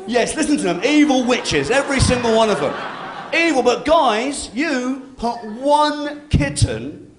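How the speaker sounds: mock outrage. Real, not acted. Mock outrage at heckling women.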